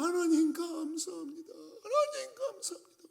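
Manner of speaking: high, crying thanks, breaking into sobs; tearful cry of thanks. Retold or imitated. Woman overjoyed at her answered prayer, high tearful thanks. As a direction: weep out the thanks, pitch soaring. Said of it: "그리고 소리를 질렀어요".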